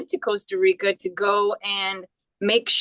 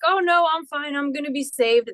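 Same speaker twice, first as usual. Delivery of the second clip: breezy refusal; 5 semitones higher than usual. Retold or imitated. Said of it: "And you're like".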